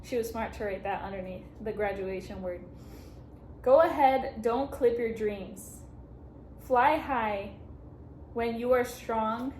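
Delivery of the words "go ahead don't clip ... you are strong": steady heartfelt reading of the card; first, calmer take of a card's farewell wish; first read-through. Real, not acted. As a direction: read the wish out sincerely before the emotion hits. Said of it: "oh, okay".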